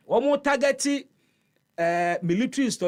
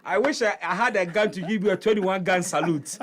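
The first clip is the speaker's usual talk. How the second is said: laughing; 2 semitones higher than usual. Real, not acted. Joking praise, laughing.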